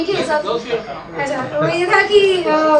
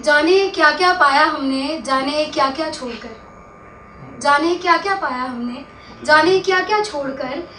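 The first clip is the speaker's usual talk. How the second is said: measured ghazal recital, line by line; mushaira-style verse reading; poetry recitation; 2 semitones lower than usual. Acted. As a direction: recite the couplet with lingering line endings.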